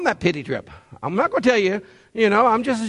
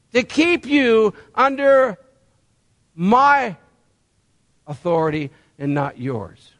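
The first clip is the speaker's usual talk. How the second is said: voicing God; 3 semitones higher than usual. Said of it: "talked to Paul".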